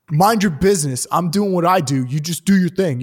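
a hint of a snotty dismissive guy; rude heckler again. Heckler telling the comic to mind her business, smug.

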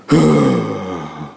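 mock showy groaning exhale; a show-off sauna breath, mocked; imitating a loud sauna sigh. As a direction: ham up an annoying sauna sigh. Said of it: "who go like".

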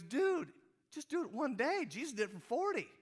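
buddy's high, loud holler; very high, very loud shout; Slim's booming holler. Retold or imitated. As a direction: bellow the name way up high, like a rowdy pal. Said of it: "That's how he talks".

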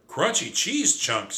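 high, loud, drawn-out exclamation; shouted exclamation. A narrator's reading. Cousin sees the map appear, shouting. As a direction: exclaim it slowly with delight. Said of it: "shouted Trap".

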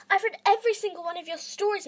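protest, voice climbing; rising protest. Acted. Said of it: "her voice rising in protest".

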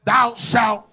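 short, high, loud outburst; loud preaching shout. Shown as a demonstration. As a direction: fire the first words out like a cannon. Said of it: "just one more time for the Holy Ghost".

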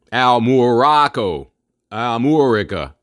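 "Al Morocco" and "Amurica" slow and deliberate; sounded-out names. Shown as a demonstration. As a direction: stretch the shared moor sound in "Amurica". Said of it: "with the pronunciation and everything".

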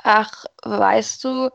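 slow, hesitant, wondering; pausing, unsure and surprised; hesitant and puzzled. Acted. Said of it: "begann sie zögernd und äußerst verwundert".

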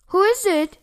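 high, loud fake-granny call; cackly disguised wolf. A narrator's reading. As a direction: call out in a put-on old granny voice. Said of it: "he called in a cockly way".

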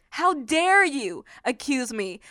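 slow, deliberate indignation; defiant challenge. Acted. Believer fighting off the enemy's accusation, defiant. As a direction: space it out to face down an accuser. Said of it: "here's what you can say to the enemy".

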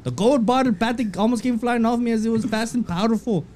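bad mock-Irish post reading; amateur Irish accent, slipping as it goes; attempted Irish accent. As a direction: read it as a fake Irish McGregor. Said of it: "Read it in his accent".

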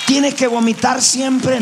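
rhetorical cry. Real, not acted. Preacher shouting rhetorical question.

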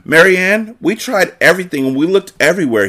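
high-pitched whiny complaint; complaining. A narrator's reading. Jordan reports the failed search to Marianne, complaining. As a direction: complain like a frustrated kid. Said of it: "he complained".

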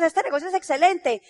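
imitating a scared, unconvincing speaker; hammed-up cowardly sales pitch; mock timid chicken. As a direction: pitch the line like a chicken, wavering. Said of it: "hablas así como una gallina".

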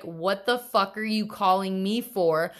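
hammed-up furious mom snapping down the phone; imitating angry mom. Mom on the phone scolding her scared daughter, mock angry yelling. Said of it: "She was actually angry with me".

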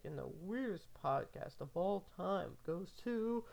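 slow, drawn-out award presenter voice; lightly hammed-up award show announcement; mock award announcer. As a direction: announce the winner like a gala host. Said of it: "and it's like".

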